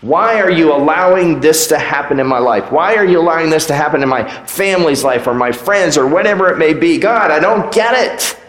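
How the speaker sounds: mild mock lament; frustrated prayer. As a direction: vent to God at night, lightly acted. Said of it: "on the pillow at night and we say".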